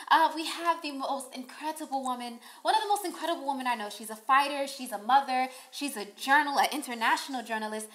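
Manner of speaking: hammed-up posh British introduction; a put-on British accent, lightly done; mock British accent. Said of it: "I have to do the accents when I introduce her".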